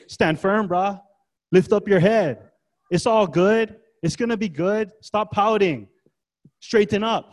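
a breezy, punchy buck-up speech in short bursts; casual pep talk. Acted. Preacher mimics what Paul doesn't just say, mock pep talk. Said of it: "He doesn't just say".

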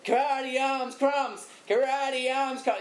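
high, slow toothless chant. Retold or imitated. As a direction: chant it like you've got no teeth. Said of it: "You gotta say it like you got no teeth".

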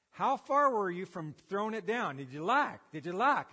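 a mild mock coach pushing; impatient coach.

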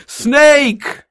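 high, loud mock yell of snake. Wife yelling across the backyard, high startled mock yell. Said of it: "And she yells".

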